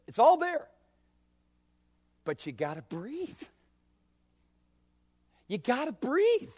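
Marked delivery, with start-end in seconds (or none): 2.2-3.4 "breathe" dropped much softer, almost to himself; soft refrain. Acted. Preacher repeats his refrain. 5.5-6.5 "breathe" lifted higher as an urgent plea; raised refrain. Acted. Preacher repeats his refrain.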